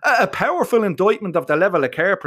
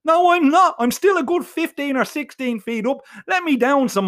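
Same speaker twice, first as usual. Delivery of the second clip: panicked yell; 9 semitones higher than usual. Acted. Dangling boy yelling up at his mates, frantic. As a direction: yell it up desperate to be let down.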